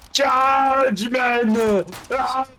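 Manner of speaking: mock heroic charge cry; battle cry. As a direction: yell the charge at the enemy. Charging in the game.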